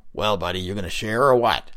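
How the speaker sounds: a loud, pushy stone face calling out; a loud, pushy stone face pestering a smoker; gruff Big Lips. Acted. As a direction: needle the stranger for his smoke, loudly. Big Lips voiced again.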